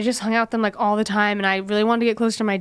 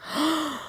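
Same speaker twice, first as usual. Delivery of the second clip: retold gasp; 6 semitones higher, 6 dB quieter than usual. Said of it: "And I was like".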